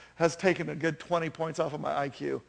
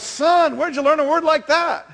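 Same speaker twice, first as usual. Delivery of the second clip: loud, high-pitched scolding twang; mock-indignant dad in a country song; startled country dad; 9 semitones higher, 8 dB louder than usual. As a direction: call the boy out sharply, hammed-up. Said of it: "And the dad goes".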